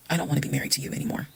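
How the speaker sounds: soft, composed refusal; retold quietly, with firm control; calm. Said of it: "exactly how I was talking to him".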